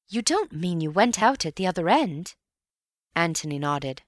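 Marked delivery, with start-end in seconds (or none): 0.1-2.3 amazed question. Acted. Bill amazed at friend's escape.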